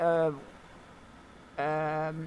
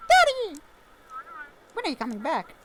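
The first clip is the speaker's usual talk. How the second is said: put-on high, eager kid calling for dad; a small child thrilled to hear daddy; little child voice; 9 semitones higher, 4 dB louder than usual. Child on the radio calling to her father, high and eager.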